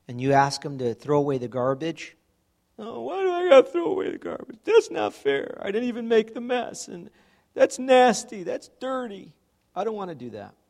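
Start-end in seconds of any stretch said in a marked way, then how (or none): 2.8-10.6 put-on high, fast, whining kid voice; whiny child. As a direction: complain like a kid told to take out the trash. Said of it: "That's how kids reply".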